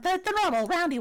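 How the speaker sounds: lightly voiced kobold; a hint of creature voice. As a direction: explain as a little kobold, haltingly. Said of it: "when you do your kobold voice".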